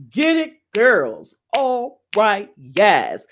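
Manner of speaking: mock cheer, drawn out and swooping; cheering them on. Cheering on the women attorneys she found, playful drawn-out hype. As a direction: hype up your girls, stretching the words. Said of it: "I'm like".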